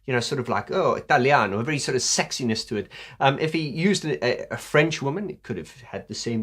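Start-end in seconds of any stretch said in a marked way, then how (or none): 0.7-1.6 brief put-on Italian flourish; playful Italian imitation; mock Italian accent. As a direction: toss it off with an Italian lilt. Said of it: "to use an Italian woman".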